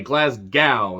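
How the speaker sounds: Glasgow with a sounded g, "glaz-GOW"; pronunciation variant. Shown as a demonstration. Reviewer showing there's a G there, Glasgow with a full g. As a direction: lean on the g-syllable of Glasgow. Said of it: "since it's got a, a G there".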